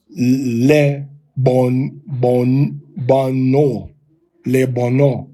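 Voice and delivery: "le bono" with an e and long o. Shown as a demonstration. Teacher showing the other systems' reading. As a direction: build up "le bon, bono, le bono". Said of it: "That's how you're gonna pronounce it".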